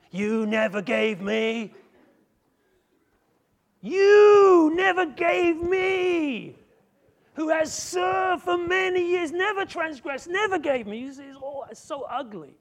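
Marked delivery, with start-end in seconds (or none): 0.1-1.7 rising complaint. Acted. Building complaint, louder. 3.8-11.0 very high, loud, slow cry-shout; wailing shout. Acted. Son shouting his grievance.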